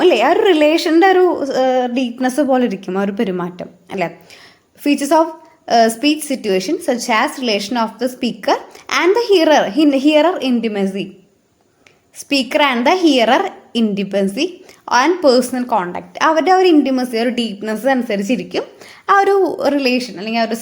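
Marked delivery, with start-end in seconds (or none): 4.8-16.1 slow dictation. Shown as a demonstration. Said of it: "reading notes aloud slowly".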